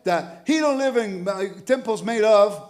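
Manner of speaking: imitating a smug critic quoting Paul; mock critic. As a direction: lampoon the person quoting scripture out of context. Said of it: "When they say".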